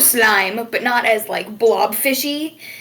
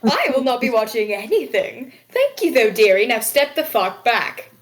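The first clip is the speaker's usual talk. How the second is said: prim tavern keeper. Acted. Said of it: "the woman kind of looks at you and goes".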